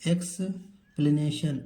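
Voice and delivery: एक्सप्लेनेशन said slowly, syllable by syllable; drawn-out teacher model of एक्सप्लेनेशन; slow model word. Shown as a demonstration. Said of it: "एक्सप्लेनेशन पढ़िए".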